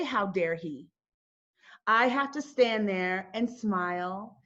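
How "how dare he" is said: lower, reined-in version of the outrage; held-back indignation. Retold or imitated. Driver who can't say it to the officer, indignation held down. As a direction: say it as words you aren't allowed to say. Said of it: "I can't say".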